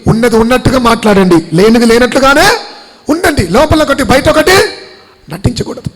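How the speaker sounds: exhorting the congregation, pitch climbing as it goes; rising pulpit exhortation; forceful preaching. Real, not acted. Preaches commands at full force.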